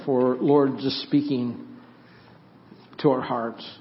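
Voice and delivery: earnest, measured prayer voice; hushed pastoral prayer with bowed head. Real, not acted. Pastor opens congregational prayer.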